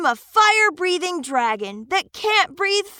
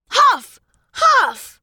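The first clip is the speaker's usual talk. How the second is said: forceful huffs, louder; dragon huffing; 4 semitones higher, 4 dB louder than usual. Acted. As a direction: puff out hard like a dragon. Dragon trying to breathe fire.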